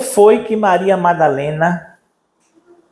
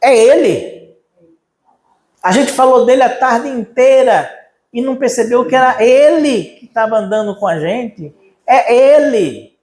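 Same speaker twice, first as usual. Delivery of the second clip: higher, astonished disciples; amazed realization; 6 semitones higher than usual. Retold or imitated. Disciples of Emaús to each other, amazed. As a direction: gasp it out as it dawns on them. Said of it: "os caras olham um pro outro e dizem assim".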